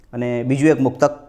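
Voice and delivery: ordinary talk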